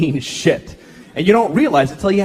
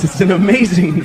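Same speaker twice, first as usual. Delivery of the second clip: ordinary talk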